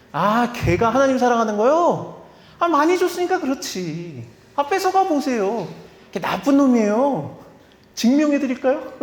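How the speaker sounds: 사탄 흉내, 약간 높고 비아냥거리며; mocking Satan. Satan voiced mocking Job to God. (하나님께 욥을 깎아내리는 사탄, 비꼬는 높은 목소리)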